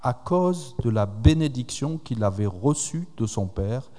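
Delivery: reading the Bible passage aloud, measured; scripture reading. Acted. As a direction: read the verses to the congregation. Lecture de la Bible. (lecture solennelle des Écritures)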